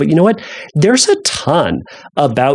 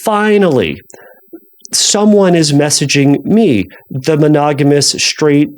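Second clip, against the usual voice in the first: sarcastic. Shown as a demonstration. Podcast host repeating a joke made to a friend, sarcastic. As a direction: play up a long-awaited moment, then let it sag. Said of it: "sarcastically, and I said this sarcastically".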